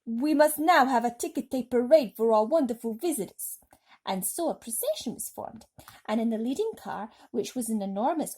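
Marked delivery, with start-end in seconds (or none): 0.1-3.6 loud, booming mayor's proclamation; mayor shouting. A narrator's reading. Mayor shouting his parade plan to the crowd, loud. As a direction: announce it to the whole city. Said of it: "Then the mayor shouted".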